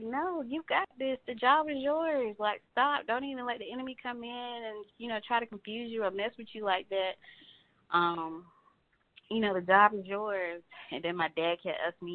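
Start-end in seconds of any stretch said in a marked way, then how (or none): 0.0-10.6 cheering her on like a supportive friend; encouraging coworkers. Retold or imitated. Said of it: "they was like".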